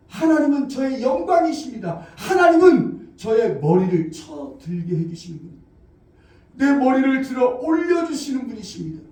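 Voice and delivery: demonstrated prayer of trust. Shown as a demonstration. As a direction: declare trust in God. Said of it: "이렇게 기도하는 거예요".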